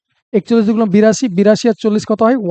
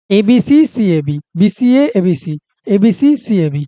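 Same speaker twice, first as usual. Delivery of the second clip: slow grouped reading; much slower than usual. Shown as a demonstration. ধীরে ধীরে তিনটে করে ভেঙে বলা. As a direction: split into threes, said very slowly, a short break after each group. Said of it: "দেখো".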